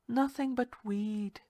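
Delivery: slow, drowsy, smiling answer; slow, sleepy. Acted. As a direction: lazily brush it off. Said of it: "with that slow, sleepy smile".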